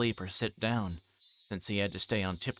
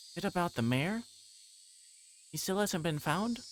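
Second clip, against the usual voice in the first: put-on girl's voice; 9 semitones higher than usual. Girl character voiced in story.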